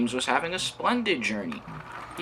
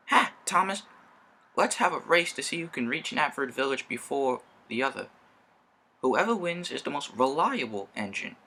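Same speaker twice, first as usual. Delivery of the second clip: a lightly raised boasting engine voice; boastful James; 4 semitones higher than usual. Acted. Boasting engine James challenging Thomas to a race, lightly raised. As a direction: crow a challenge with a light lift. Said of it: "said James".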